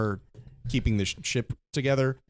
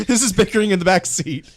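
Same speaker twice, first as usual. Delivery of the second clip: laughing, a bit louder; 9 semitones higher, 6 dB louder than usual. Real, not acted. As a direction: laugh as you say it. Laughing at party squabble.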